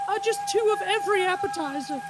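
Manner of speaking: Kitty's order. Retold or imitated. Kitty ordering for the whole table, high and breezy. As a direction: toss it off high and casual like Kitty. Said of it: "And so Kitty just goes".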